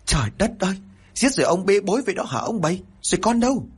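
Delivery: high, exasperated yell; shouting loudly. A narrator's reading. Wife yells at her husband over the mess, high and loud. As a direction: cry out in shock and blame. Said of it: "Chị liền la lớn".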